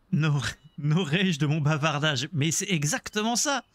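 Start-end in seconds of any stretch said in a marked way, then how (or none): 0.1-2.3 laughing. Retold or imitated. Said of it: "accent du Québec".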